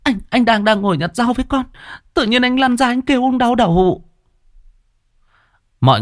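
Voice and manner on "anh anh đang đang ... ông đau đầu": put-on high, tearful girl explaining fast; whimpering girl. Kiều tearfully tells elders what happened, high whimpering voice. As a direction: tell it on the edge of tears. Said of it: "Kiều mếu máo".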